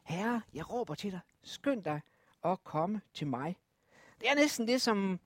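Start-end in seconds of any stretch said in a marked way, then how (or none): 0.0-3.6 a gentle whispered prayer; quiet pleading. Acted. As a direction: hush the plea down. Repeating the psalm cry quietly.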